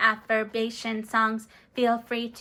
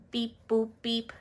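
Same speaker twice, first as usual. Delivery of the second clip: robot beeps. Pretend. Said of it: "I'm trying something new".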